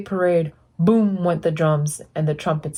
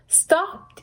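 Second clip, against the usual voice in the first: mock yell; 11 semitones higher, 3 dB quieter than usual. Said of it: "yelled Blue".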